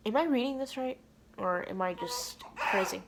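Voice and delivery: stunned disbelief. Retold or imitated. Retold stunned reading of mom's reply.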